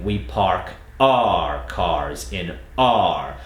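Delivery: very slow, our said as a plain R. Shown as a demonstration. Coach showing our said as just R, slow. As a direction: replace our with R, slowly. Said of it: "Hence why we're saying".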